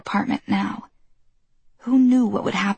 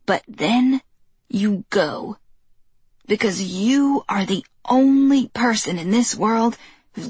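put-on stern old woman. Old neighbor giving hard advice.

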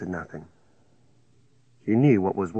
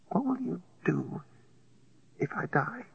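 frightened; 9 semitones higher, 7 dB quieter than usual. A narrator's reading. Dying woman asks frightened.

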